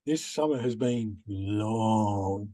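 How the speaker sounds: slow, low and soft, bone-dry; deadpan echo. Acted. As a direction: drag it out wearily to undercut him. Dry echo of S0's remark.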